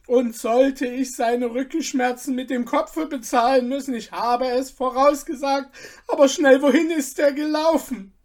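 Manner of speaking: high, loud told-you-so rant; aggrieved old rider. A narrator's reading. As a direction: protest he warned them all along. Old rider rants, self-justifying.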